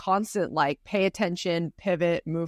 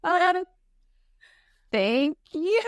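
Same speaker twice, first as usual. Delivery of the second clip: much higher fake-hurt thanks; mock offended; 11 semitones higher, much slower than usual. Host answering a friend's joke with mock offense. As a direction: play it wounded but amused. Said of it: "I was like".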